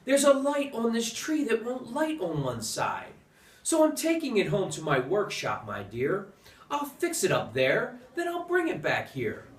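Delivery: a lightly voiced sly Grinch, sweetly lying; fake Santa lie. Grinch fools Cindy Lou with a lightly sweet lie. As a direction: coax the child with a mild false kindness. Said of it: "the fake Santa Claus lied".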